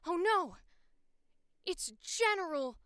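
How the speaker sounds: loud, high play-acted panic; mock alarm. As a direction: cry out like a make-believe robber caught red-handed. Pretend robber caught by the cop.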